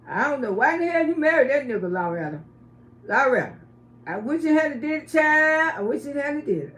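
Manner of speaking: lightly voiced homeboy with feminine touches; effeminate homeboy. Homeboy scolding his friend Loretta over her marriage, lightly imitated effeminate voice. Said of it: "this is the way the guy used to talk".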